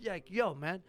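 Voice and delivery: lightly attempted New York accent; mock a forced New York accent; hint of overdone New Yorker. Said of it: "try to do a New York accent".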